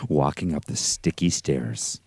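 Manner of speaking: low, hushed spooky telling; storyteller voice. Acted. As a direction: read it like a campfire ghost story. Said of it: "let me get my storyteller voice ready".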